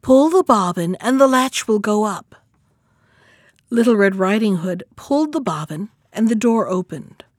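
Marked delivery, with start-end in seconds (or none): 0.0-2.3 lightly coaxing wolf posing as grandmother; a hint of gentle disguise; softened wolf voice. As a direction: call out, easing the voice a touch. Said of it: "softening his voice as much as he could".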